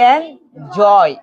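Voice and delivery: "এন জয়" split into two separate beats; syllable by syllable. Shown as a demonstration. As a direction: pause between "এন" and "জয়". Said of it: "syllable করে করে পড়ো".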